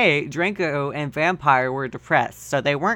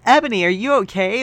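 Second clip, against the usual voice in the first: higher, lightly voiced worried friend; concerned bandmate; 5 semitones higher, 4 dB louder, faster than usual. Bloody Mary checking on crying Ebony, lightly concerned. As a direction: ask it with a hint of concern. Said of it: "in a concerted, concerted voice".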